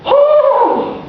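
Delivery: sudden high delighted gasp of oh; surprised oh. Acted. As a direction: catch your breath, floored by the praise. Moved listener gasps at praise.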